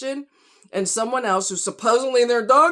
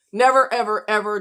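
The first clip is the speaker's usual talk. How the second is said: emphatic shout; 5 dB louder than usual. Real, not acted. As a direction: punch out never ever. Angry rant.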